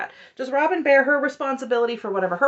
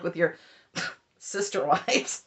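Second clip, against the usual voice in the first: scoffing; 3 semitones lower, 4 dB quieter than usual. Retold or imitated. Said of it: "she actually scoffs".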